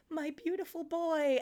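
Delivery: high, slow mock-tender voice; doting mother. Imitating a mother at an awkward reunion, doting. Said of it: "and she's like".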